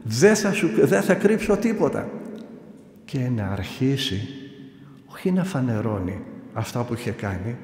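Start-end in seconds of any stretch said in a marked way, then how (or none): 0.0-2.1 higher, gloating mock shout; retold shout. Possessed man threatening to read out everything, mock shout. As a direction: crow it out as if reading his sins aloud. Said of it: "και να λέει και να φωνάζει".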